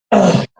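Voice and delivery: mock "ugh" of annoyance; imitated exasperated groan. Trump brushing off advice, imitated groan. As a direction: give a put-upon groan. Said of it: "And he goes".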